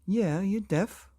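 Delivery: put-on girl sneering at her father; rude retort. A narrator's reading. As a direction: spell it out to him with scorn.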